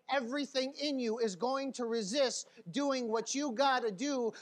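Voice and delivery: loud, insistent preacher rhythm; forceful preaching. Acted. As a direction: drive it home to the congregation.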